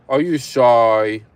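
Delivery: slow, drawn-out playful tease; teasing coo. Real, not acted. Streamer teasing a shy viewer, cooing.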